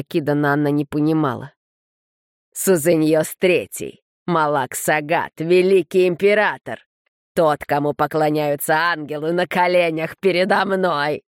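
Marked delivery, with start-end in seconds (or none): 2.6-11.2 wild triumphant mockery. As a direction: crow it out in glee. Tit mocks the kneeling emperor.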